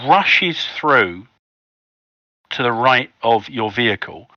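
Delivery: measured storytelling with pauses before key phrases; game master narration. Acted. Game master tells players how the van spins, measured suspenseful narration. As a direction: set the scene piece by piece.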